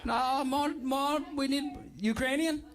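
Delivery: attempted Ukrainian accent. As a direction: try out a light Ukrainian accent. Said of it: "no one can do a Ukrainian accent".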